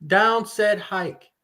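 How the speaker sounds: slow mock quarterback cadence, a little high; Jared Goff. Teammate showing how the quarterback talks, lightly imitated snap call. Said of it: "they said Jared talk like, talks like this".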